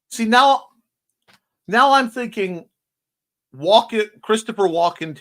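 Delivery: light up at the idea; real excitement about a casting joke; excited. Real, not acted. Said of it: "I can't do the accent well enough".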